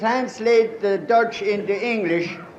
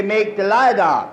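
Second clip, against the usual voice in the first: wrong phrasing; 2 semitones higher than usual. Shown as a demonstration. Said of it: "But that ain't right".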